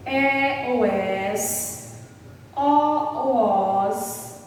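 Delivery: each ending drawn out slowly, syllable by syllable; slow, deliberate dictation of letter endings. Shown as a demonstration. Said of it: "Terminada em".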